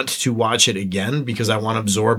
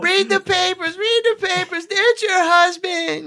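Godfather quote voice. Retold or imitated.

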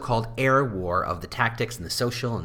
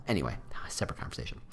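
quick aside; 6 semitones lower, 10 dB quieter, much faster than usual. Real, not acted.

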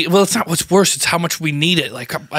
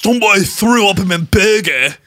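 bad English accent; 3 dB louder than usual. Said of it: "if you do it that way".

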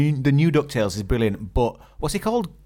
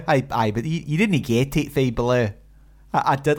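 put-on Scottish accent. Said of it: "watching the Limmy show".

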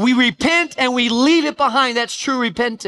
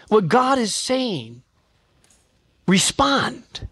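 ordinary talk, nothing marked

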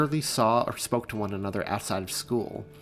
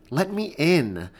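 slow, muffled through glass; muffled plea from outside the glass; 6 semitones higher, 4 dB louder, slower than usual. Acted. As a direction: call it like through a closed window. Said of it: "her voice muffled".

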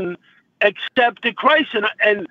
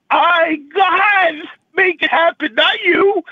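tearful; 4 semitones higher than usual. Real, not acted. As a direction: push the words out while crying. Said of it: "I'm sorry I'm crying".

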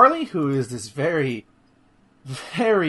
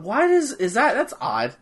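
puzzled aloud; 4 semitones higher than usual. Retold or imitated. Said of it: "I didn't say it out loud".

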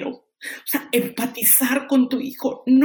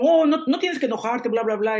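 mock sermon; 3 semitones higher than usual. Mom mimics lecturing her angry son, mildly preachy. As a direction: brush off the kid's anger with a mini lecture. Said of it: "en lugar de darle un sermón".

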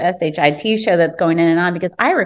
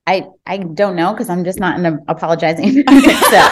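laughing; 2 semitones lower than usual. Real, not acted. Laughing about her mood.

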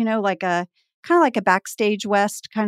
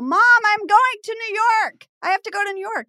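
retold yell; 10 semitones higher than usual. Daughter yelling to mom about New York, acted excitement. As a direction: re-enact yelling through the house. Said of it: "And I literally yell".

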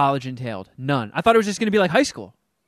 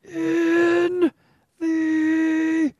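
slow, much higher word-by-word reading; talking really slow; 11 semitones higher, much slower than usual. Pretend. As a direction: drag out each word like a child reading. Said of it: "Oh, can I talk really slow?".

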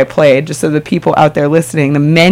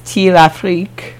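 fake French accent; 4 dB quieter, slower than usual. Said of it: "I just butchered that with my fake French accent".

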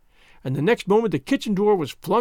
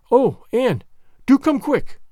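higher and louder, urgent and frightened; nervous pleading; 6 semitones higher, 4 dB louder, slower than usual. A narrator's reading. Diana begging Anne to come quickly, frightened pleading. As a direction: beg her to hurry, scared. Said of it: "implored Diana nervously".

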